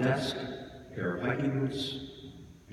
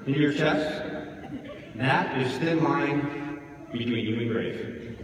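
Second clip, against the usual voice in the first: much higher, louder, hammering each line; fiery preacher shout; 10 semitones higher, 3 dB louder than usual. A narrator's reading. Priest berating funeral mourners, fiery shouted sermon. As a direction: thunder at them like a scary priest. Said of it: "Scary guy. Very intense".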